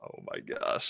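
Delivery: whispered reaction; hushed disbelief. Real, not acted. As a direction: whisper it under your breath in shock. Game master reacts to big spell.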